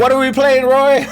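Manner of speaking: high loud announcer call-out; fighting game announcer. Acted. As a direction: hype it like a match host. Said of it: "Can we do a take two?".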